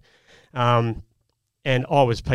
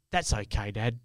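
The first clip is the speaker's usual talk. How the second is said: gentle forgiveness; 2 semitones lower, 6 dB quieter than usual. Retold or imitated. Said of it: "like that, without any ill will".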